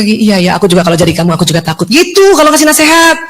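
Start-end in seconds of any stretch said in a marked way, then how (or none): 0.0-1.9 empathetic reply. Shown as a demonstration. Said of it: "Lalu ke".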